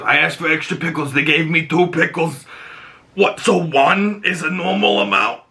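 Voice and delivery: indignant complaint. Retold or imitated. Oz eating burgers with Vic, indignant complaint. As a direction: gripe in mock outrage at being shortchanged. Acting out Oz griping over burgers.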